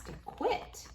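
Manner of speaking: put-on reading to children. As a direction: read it like a bedtime picture book for kids. Reads picture book to children.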